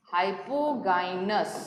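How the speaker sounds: "hypogynous" drawn out very slowly, syllable by syllable. Shown as a demonstration. Teacher spelling out the term for students, very slow. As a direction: let each syllable of "hypogynous" land.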